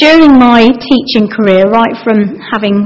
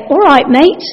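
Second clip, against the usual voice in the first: light, quick, rising greeting; friendly greeting; 5 semitones higher than usual. Shown as a demonstration. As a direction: toss it off as a cheery hello. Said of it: "for example, there's, you could say".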